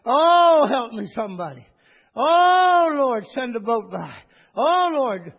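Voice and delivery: hammed-up wailing plea, high and loud; mock boo-hooing. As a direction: play the helpless man crying for a boat. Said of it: "start boo-hooing and crying and say".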